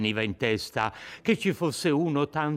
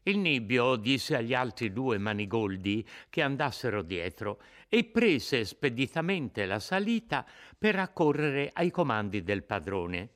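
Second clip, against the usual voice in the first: usual speaking voice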